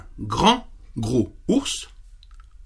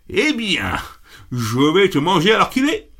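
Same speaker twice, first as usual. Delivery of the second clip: troll yelling; 6 semitones higher than usual. Acted. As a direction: yell the threat at the big goat. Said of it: "hurla le treuil".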